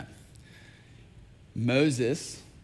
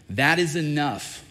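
slow, louder, firm cutoff; angry rebuke; 2 semitones higher, 5 dB louder, slower than usual. Retold or imitated. The Lord refusing Moses' plea, sternly. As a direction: shut the plea down, each word weighted. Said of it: "the Lord was angry with me".

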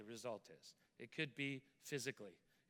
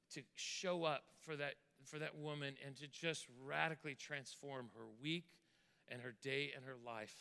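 earnest prayer led before a congregation; heartfelt petition in measured phrases; public prayer. Real, not acted.

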